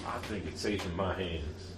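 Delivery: slow Southern drawl; lightly voiced southern character; southern accent. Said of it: "I don't know why I'm doing a southern accent".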